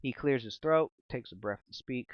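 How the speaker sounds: slow, ominous storytelling voice; dramatic narration. Acted. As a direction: paint the scene with suspense.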